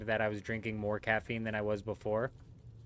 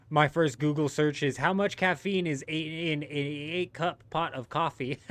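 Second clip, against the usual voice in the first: laughing; 4 semitones higher, 3 dB louder than usual. Real, not acted. Laughing while quoting his search.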